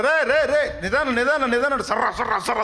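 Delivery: high, loud, laughing cries of a fussing mother; mother calling out. Retold or imitated. Mother calling after her running son, high laughing cries. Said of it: "అది కూడా ఆమె చెబుతారు".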